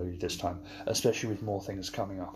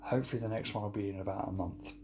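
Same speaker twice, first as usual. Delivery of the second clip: softer, rushed throwaway line; quick aside; 2 semitones lower, 5 dB quieter, faster than usual. Shown as a demonstration. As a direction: toss it off quickly and quietly. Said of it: "I would usually be saying about now".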